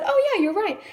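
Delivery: lightly voiced teacher admitting it; teacher conceding. Teacher admits student caught his math error, mildly surprised. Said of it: "And he said".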